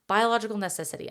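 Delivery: lightly voiced cartoon jungle creature; Jungle Book voice. Shown as a demonstration. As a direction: punch "Biological necessity" out like a cartoon jungle character. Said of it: "I said it like The Jungle Book".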